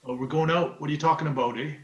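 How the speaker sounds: lightly put-on Canadian accent. Shown as a demonstration. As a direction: mimic your old Canadian accent a little. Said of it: "I sounded more Canadian".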